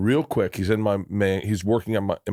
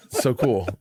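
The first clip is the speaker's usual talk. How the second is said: forced approval; 3 semitones higher, slower than usual. Retold or imitated. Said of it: "bite my tongue and go".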